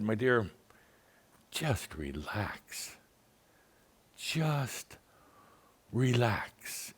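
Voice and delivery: very slow, soft reassurance; calm her down, drawn out and hushed; gentle quiet calming; soothing. Retold or imitated. Soothing the upset caller.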